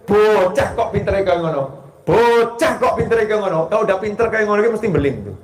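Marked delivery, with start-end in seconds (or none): 0.0-1.6 a hint of grandma's sweet scolding; light old Javanese grandmother voice; mock grandma scold. Shown as a demonstration. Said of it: "Betul kan ya?". 2.0-3.7 pitched up mock grandma; a teasing, higher scold like an old grandma. Shown as a demonstration. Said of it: "Betul kan ya?".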